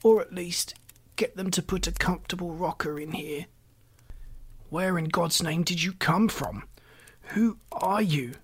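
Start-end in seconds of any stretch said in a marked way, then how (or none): 4.7-8.4 frantic. Acted. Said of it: "burst out Mister Button frantically".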